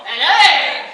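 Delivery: booming "An egg!"; loud reveal. Retold or imitated. Performer's final egg reveal, booming. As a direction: shout it to the room.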